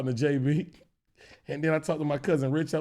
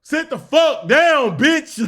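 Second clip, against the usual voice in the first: loud, higher yell at the screen; mock yell; 8 semitones higher, 8 dB louder, much slower than usual. Yelling at the man crossing the bootleg screen, loud and high. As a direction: shout at the guy blocking the movie. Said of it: "I'm like".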